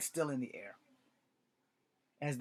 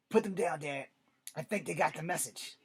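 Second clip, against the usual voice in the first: raised, higher urgent voice; yelling at father; 3 semitones higher, 4 dB louder than usual. Acted. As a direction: yell a plea to your father. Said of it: "Chris yells at his father".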